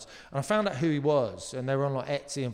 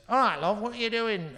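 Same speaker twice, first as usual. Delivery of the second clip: lightly voiced woman, higher pitched; retold woman's greeting; 8 semitones higher than usual. Woman challenging a stranger outside Waitrose, lightly mimicked higher voice. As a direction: mimic her questioning, pitched up a little. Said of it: "the woman came out and she goes".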